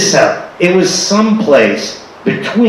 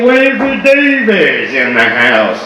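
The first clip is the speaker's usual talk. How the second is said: slow announcement; 3 semitones higher, slower than usual. Retold or imitated. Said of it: "they can't even say".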